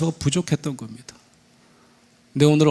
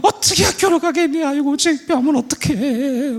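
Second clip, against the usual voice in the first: hammed-up tearful lament, vowels stretched; wailing mother; 10 semitones higher than usual. Mother crying along with her ashamed daughter, high mock wailing. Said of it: "막 두 사람 막 울기 시작합니다".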